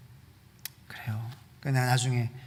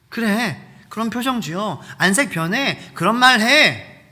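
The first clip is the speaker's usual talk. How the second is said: higher, louder mocking tempter, laughing; goading devil; 8 semitones higher, 8 dB louder than usual. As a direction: egg them on with a sneering laugh.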